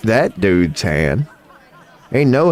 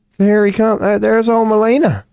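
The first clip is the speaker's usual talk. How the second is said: mock announcer; 11 semitones higher than usual. Announcing entrance mockingly.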